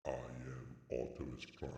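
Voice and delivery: robot voice; Optimus Prime voice. Pretend. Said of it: "This sounds like Optimus Prime".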